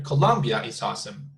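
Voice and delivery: Colombia stressed at the front; Betonung auf COLOMBIA. Shown as a demonstration. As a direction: put the weight on Colombia. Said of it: "you're emphasizing on the country".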